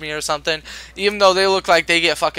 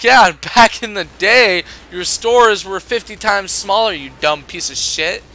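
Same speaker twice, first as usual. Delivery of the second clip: sarcastic retort; 3 semitones higher, 4 dB louder than usual. Retold or imitated. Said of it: "I'm like".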